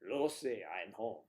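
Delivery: put-on Spanish accent, falling at the end. Husband announcing he's home, Spanish accent. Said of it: "a Spanish accent".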